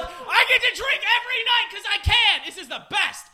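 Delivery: bright shouted joy at the same words; thrilled. Retold or imitated. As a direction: celebrate it like a gift. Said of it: "I should be like".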